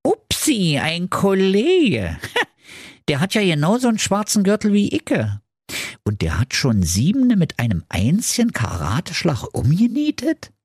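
put-on high Berlin accent, laughing, rushing his thoughts; startled Berlin ninja. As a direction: babble it, impressed and a bit scared. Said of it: "dachte bei sich".

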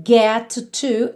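"get to" with one shared t; linked single sound. Shown as a demonstration. Teacher shows learners the link, one T sound. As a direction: join "get to" as "geh-too". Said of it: "você liga num som só".

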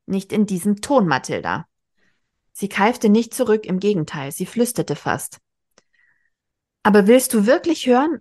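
lively read-aloud with voiced characters; reading a novel aloud. A narrator's reading. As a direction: read the scene to your listener. Reads a novel passage aloud.

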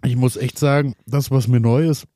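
strained voice after hot chili; trouble speaking from chili. Real, not acted. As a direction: fight through burning vocal cords. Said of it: "ich krieg grad Probleme beim Sprechen". (Probleme beim Sprechen wegen Chili)

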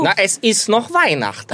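high whiny plea of a clingy mother; mother's complaint. Retold or imitated. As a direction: imitate the mother begging him to stay. Mother's complaint voiced in story.

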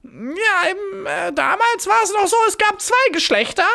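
sehr hohe, weinerliche Koboldstimme; Pumuckl-Imitation. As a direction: kreischig hoch wie ein greiser Kobold. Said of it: "Nicht schlecht, wie du ihn nachmachst". (hohe, jammernde Opa-Kobold-Stimme)

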